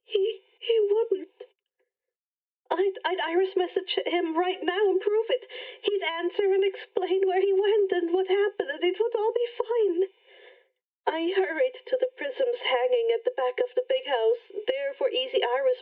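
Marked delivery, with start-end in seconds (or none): 0.1-10.0 tearful hope. Acted. Annabeth clings to hope, near tears.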